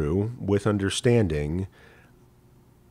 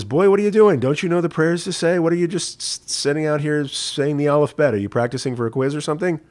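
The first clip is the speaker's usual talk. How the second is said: much higher and louder, scolding in disbelief; incredulous rabbi; 7 semitones higher, 4 dB louder than usual. Acted. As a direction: demand what on earth the boy is doing. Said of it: "And the rabbi says".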